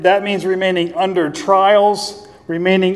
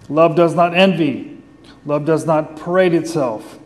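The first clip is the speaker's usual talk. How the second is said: scripture reading. Acted. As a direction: read each line of the verse with weight. Reads scripture aloud.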